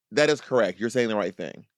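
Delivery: understated reassurance; calm confirmation. Acted. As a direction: confirm it patiently and finally. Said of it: "someone to be like".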